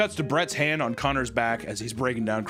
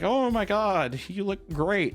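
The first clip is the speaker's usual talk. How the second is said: higher, fake-nice gush; forced compliment; 6 semitones higher, slower than usual. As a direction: imitate someone forcing out praise. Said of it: "forces a compliment".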